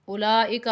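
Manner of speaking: اولئک with a quick, unstretched i after laa; short hamza. Shown as a demonstration. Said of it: "اسے کھینچنا نہیں ہے".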